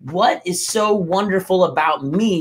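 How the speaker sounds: open, upbeat asking; light, confident wondering; hopeful self-question. Shown as a demonstration. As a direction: ask it with real curiosity about yourself. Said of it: "do you hear the difference in my expression".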